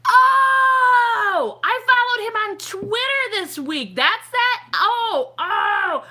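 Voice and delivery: loud, high squeal of recognition; thrilled realization. Real, not acted. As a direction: cry out as it suddenly clicks. Realizes who she followed online.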